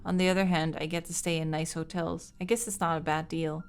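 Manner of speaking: steady letter reading voice; reading a diary aloud. Acted. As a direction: read the diary entry evenly.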